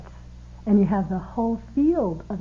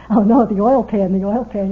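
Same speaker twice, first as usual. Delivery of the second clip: mock alarm; 7 dB louder than usual. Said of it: "Wes is going".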